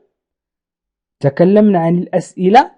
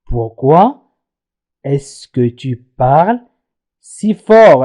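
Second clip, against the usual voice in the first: lower, slow French question; slow demo question; 4 semitones lower, much slower than usual. Shown as a demonstration. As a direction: say it slowly for the class. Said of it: "سأستعمل pourquoi". (نطق بطيء للسؤال)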